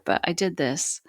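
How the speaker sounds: breathless whispered triumph. Retold or imitated. Mother realizes at the arch she made it, whispering. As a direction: whisper it as if to herself.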